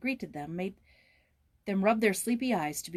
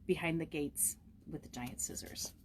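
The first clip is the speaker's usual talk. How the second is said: dramatic whisper; 2 semitones lower, 8 dB quieter than usual. A narrator's reading. Dramatic story reading to class.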